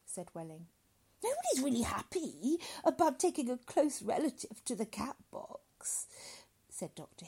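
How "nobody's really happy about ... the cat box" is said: gently sympathetic. Acted. Doctor consoles grieving father, gently sympathetic. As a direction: soothe him, slowing at the end. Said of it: "gently, sympathetically".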